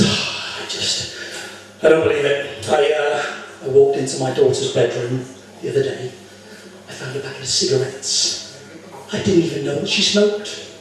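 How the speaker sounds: mock-dejected Englishman, sighing into it; lightly acted gloom with halting pauses; depressed. Englishman confiding in the barman about his daughter, depressed. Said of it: "he's looking all depressed".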